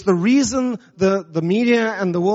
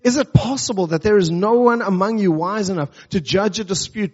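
measured, earnest Bible reading; scripture reading. Acted. Pastor reading scripture to the congregation, measured and earnest. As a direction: read the passage to the church with weight.

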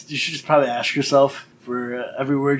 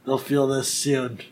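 gloating villain; slower than usual. Retold or imitated. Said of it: "looking down at everyone going".

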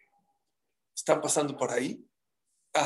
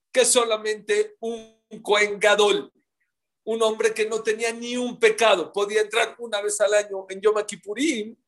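upset outcry; 5 semitones higher, 4 dB louder than usual. Acted. Friends answer Akiva, upset.

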